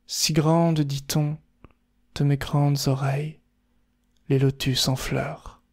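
unhurried haiku recital with long pauses between lines; méditatif, posé. Shown as a demonstration. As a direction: take your time, let each line hang. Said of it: "on prend le temps". (récitation méditative, en prenant le temps)

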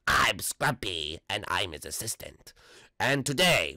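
low, soft whispered assistant; whispered sidekick voice. Pretend. The assistant Scrumpy introducing himself, low whisper. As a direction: whisper it like a shy helper.

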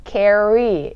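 "Carry" with a precise English R; clear R. Shown as a demonstration. Teacher modelling the R for learners, clear R. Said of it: "R 발음 정확하게".

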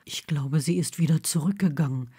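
whispered to Neville in the dark. A narrator's reading. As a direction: breathe it toward your friend. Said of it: "flüsterte Blaze".

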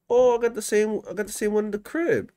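high, quick excitement; excited. Real, not acted. Gamer excited he owns the same thing. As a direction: blurt it out thrilled.

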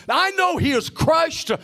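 driving, insistent sermon delivery; impassioned preaching. Real, not acted. Preacher declaring Satan's defeat to the church, impassioned preaching. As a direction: preach it emphatically, lifting toward each climax.

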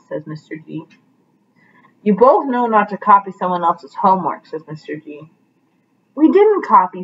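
lively picture-book read-aloud with voiced characters; reading to children. Teacher reading Pete the Cat to her class, animated storytelling.

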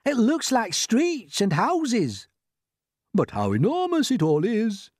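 high, drawn-out cheering; excited cries. Acted. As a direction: cheer and marvel at the sight. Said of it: "they cried".

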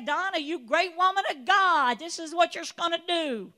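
loud, grand divine pronouncement; voice of the Lord. Pretend. God speaking to Donna, loud and grand. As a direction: announce it as God would. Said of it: "I want him to just say".

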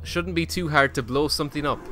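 reading the line in a character voice; a hint of a game character; lightly voiced character. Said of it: "Great, yeah, it shouldn't be".

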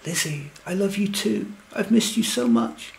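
high-pitched, gushing declaration; squeaky. A narrator's reading. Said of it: "his voice is all ugly and squeaky".

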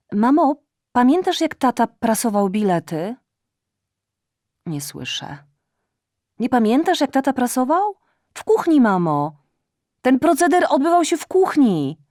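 high, loud, tipsy and insistent; drunk shouting daughter. Acted. (pijana córka krzyczy wysoko do matki)

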